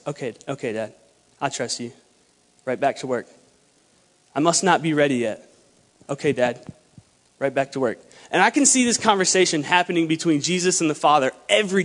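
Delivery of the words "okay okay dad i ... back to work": low, soft, resigned acceptance; obedient son. Acted. Imagined Jesus accepting the Father's answer, quietly obedient. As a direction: give in quietly, with pauses between short replies. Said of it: "I can see it going like this".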